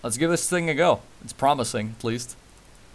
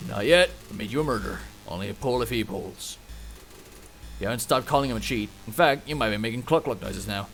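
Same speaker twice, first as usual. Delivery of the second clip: put-on Western accent; 2 semitones lower, 3 dB quieter than usual. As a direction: narrate like a cowboy storyteller, in accent. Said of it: "I can keep doing the accent".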